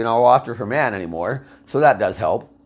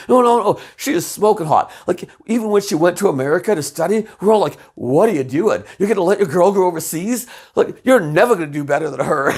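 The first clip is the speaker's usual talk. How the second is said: much higher and louder gushing; enthusiastic raving; 6 semitones higher, 3 dB louder than usual. Retold or imitated. Sanchez raves to her about the ex's looks, gushing. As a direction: gush about her, oblivious.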